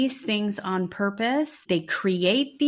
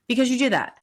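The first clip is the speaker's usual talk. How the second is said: higher, louder retold outburst; mock flare-up of temper, repeated louder; zero to a thousand; 5 semitones higher, 4 dB louder, much faster than usual. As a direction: snap it back, suddenly heated. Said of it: "he went from zero to a thousand and says".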